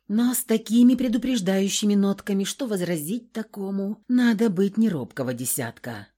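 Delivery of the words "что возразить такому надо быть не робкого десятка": ordinary delivery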